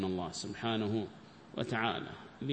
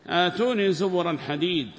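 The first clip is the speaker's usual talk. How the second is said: verse recitation; 4 semitones higher, 6 dB louder than usual. Acted. Quotes the Quranic verse.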